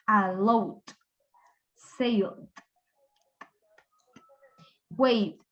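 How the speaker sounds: "allowed, sailed, waved" ending straight in D; voiced D ending. Shown as a demonstration. Teacher modelling past verbs with voiced consonants, voiced D ending. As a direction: close each word on D without an extra syllable. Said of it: "le agregamos D".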